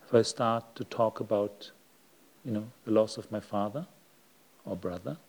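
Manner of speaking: grieving voice. Shown as a demonstration. Teacher showing listeners sadness in the voice, subdued and sad. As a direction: let the voice sink with quiet sadness. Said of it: "hear the change in my voice".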